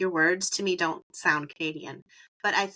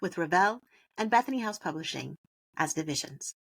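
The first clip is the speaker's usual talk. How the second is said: scripted podcast ad read; sponsor read; 2 semitones lower, 4 dB quieter than usual. Acted. Host thanking the show's publishing sponsor, scripted ad read. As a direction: read out the sponsor credit, measured.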